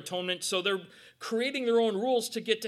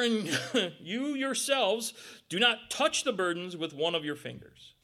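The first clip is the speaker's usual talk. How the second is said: scolding; 3 semitones higher, 5 dB louder than usual. Retold or imitated. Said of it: "wagging that finger".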